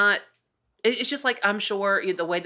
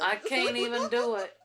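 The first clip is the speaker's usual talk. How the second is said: high, softer mock whine; exhausted Southerner; 5 semitones higher, 4 dB quieter than usual. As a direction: give up melodramatically. Playing weary Southern gas pumpers.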